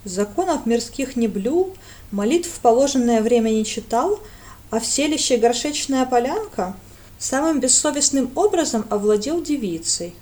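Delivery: plain reading voice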